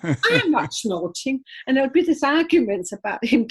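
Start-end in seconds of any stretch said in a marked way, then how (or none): 0.0-1.4 slow, drawn-out retort; mock indignant denial. Imitating Leslie answering Mickey back, slow mock indignation. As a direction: imitate an affronted comeback. Retold bickering, Leslie denies it.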